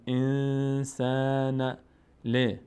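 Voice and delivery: slow, drawn-out chanted Arabic recitation; slow Quran recitation. Shown as a demonstration. Teacher slowly reciting the verse for the student, chanted. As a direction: stretch every syllable as in tajweed. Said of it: "teacher recites verse for student".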